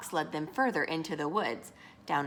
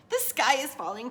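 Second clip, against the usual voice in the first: higher-pitched storybook alarm; crying out; 6 semitones higher, 4 dB louder than usual. A narrator's reading. Hen and friends warning the rooster, crying out. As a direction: call out the news, pitched up. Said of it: "cried Henny Penny".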